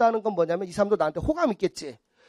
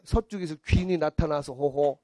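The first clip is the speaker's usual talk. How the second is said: slow, lower mystic pronouncement; fortune teller; 5 semitones lower than usual. Acted. Fortune teller foretelling a helper from the west, slow and low. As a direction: intone it like a mock fortune teller. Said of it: "점쟁이 항상".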